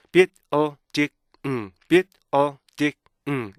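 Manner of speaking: BUILDING chopped into bi-l-di-ng, each beat separate; "building" in four detached beats, ending on a hummed ng; four micro-syllables. Shown as a demonstration. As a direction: punch out "building" piece by piece with stops between. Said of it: "이렇게 총 네 개 미세 음절을".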